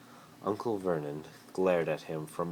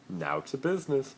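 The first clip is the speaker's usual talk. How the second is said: much higher, crisp; businesslike Malfoy; 10 semitones higher than usual. Acted. Malfoy turning to Harry in the car, high and brisk. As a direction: get down to business. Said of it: "Malfoy said".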